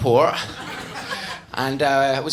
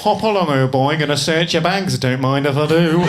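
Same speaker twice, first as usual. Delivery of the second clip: lightly put-on posh English accent; a jolly posh English guard; 3 semitones lower than usual. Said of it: "So I'll just make him English".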